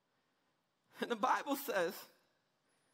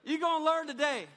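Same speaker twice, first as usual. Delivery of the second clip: call-and-response line. Shown as a demonstration. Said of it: "Look at your neighbor and say".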